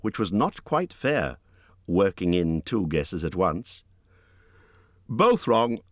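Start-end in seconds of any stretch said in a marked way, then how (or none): 5.1-5.8 higher, a touch louder relieved call; relieved cry. A narrator's reading. Bilbo telling Gollum both guesses failed, relieved cry. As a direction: blurt it out in relief. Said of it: "cried Bilbo".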